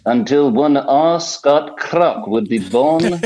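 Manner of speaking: put-on lightly Welsh, old preacher voice; a hint of a Welsh pulpit voice; Welsh preacher impression. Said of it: "questions for Doctor Lloyd Jones".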